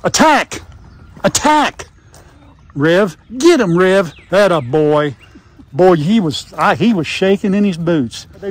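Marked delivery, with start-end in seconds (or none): 0.0-1.9 mock attack command. Grandpa urging puppies to attack the visitor, mock shout. Calling dogs to attack playfully. 2.7-6.0 playful urging. Acted. Urging puppy Rev on.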